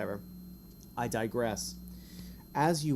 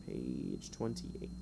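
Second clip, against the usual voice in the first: much lower and softer, slow and dramatic; deep mock voice; 13 semitones lower, 10 dB quieter, much slower than usual. Shown as a demonstration. Game master repeating the page number to players in a deep mock voice. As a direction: drop into a deep, ominous slow read.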